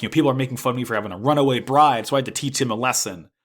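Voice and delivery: quick, lightly imitated self-important boast; high and mighty. Guel justifying himself to Miorine, imitated haughty manner. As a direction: rattle it off as a puffed-up duel winner. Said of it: "being all high and mighty".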